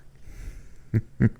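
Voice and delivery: put-on short eerie old man's chuckle; a lightly voiced sinister laugh; mock creepy cackle. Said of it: "he hears the old man laughing".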